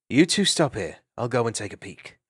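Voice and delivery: a sharp order to stay put; firmer retake. Acted. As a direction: bolder take of the line.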